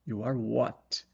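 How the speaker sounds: slow, puzzled echo; mock confused question. Shown as a demonstration. Teacher mocking an incomplete answer, puzzled. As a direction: play the confused listener. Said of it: "Tô o quê?".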